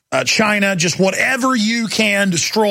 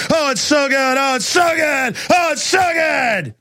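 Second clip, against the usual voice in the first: mock gloating; 2 semitones higher than usual. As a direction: gloat like a villain, rising to a shriek. Mocking elites gloating over decline.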